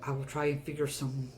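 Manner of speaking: soft, shaky whispered thanks; grateful hushed voice. Acted. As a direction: whisper thanks, still frightened. Freed prisoner thanks party.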